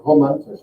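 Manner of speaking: "Romantisch" with the R back in the throat; German back R. Shown as a demonstration. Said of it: "and then finally it happens".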